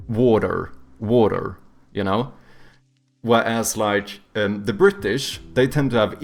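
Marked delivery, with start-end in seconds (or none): 0.1-1.6 American accent. Shown as a demonstration. Streamer demoing the American way to say water. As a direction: say it the American way, wah-der with the R. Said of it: "so they go like".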